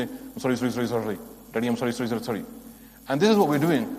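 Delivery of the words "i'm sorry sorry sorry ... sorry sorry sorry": mumbled, rattled-off sorries; a child tossing off sorry to daddy; insincere child apology. Retold or imitated. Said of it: "all you can say".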